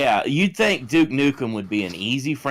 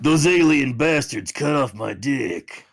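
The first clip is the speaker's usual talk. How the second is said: Duke Nukem voice; 3 semitones higher, slower than usual. Retold or imitated. Duke Nukem bit again.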